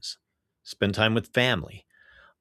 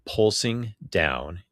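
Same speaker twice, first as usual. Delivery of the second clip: poetry reading; 3 semitones lower than usual. Real, not acted. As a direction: recite it line by line with weighted pauses. Get into reading this week's poem.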